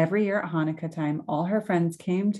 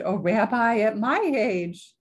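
bashful blush; 3 semitones higher, 3 dB louder, slower than usual. Acted. Baba Brana blushes.

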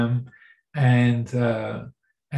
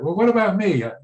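jealous, irritated; 3 semitones higher than usual. Acted. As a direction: play the overlooked, jealous colleague, easing off toward the end. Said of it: "really actually jealous and irritated".

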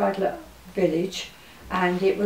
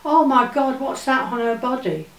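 higher and louder, a horrified cry; shocked gasp; 4 semitones higher, 4 dB louder than usual. Retold or imitated. Lady seeing marks on the girl's body, shocked loud cry. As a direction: blurt it out in alarm at what you see.

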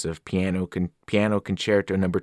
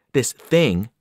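warning; 5 dB louder than usual. Acted. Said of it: "Grover warned".

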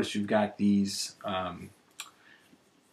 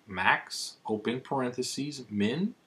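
reading a formula symbol by symbol; dictating. Shown as a demonstration. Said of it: "This is what it should look like".

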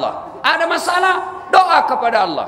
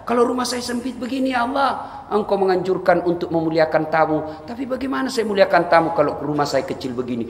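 mock plea; 3 semitones lower than usual. Voicing a poor migrant's prayer.

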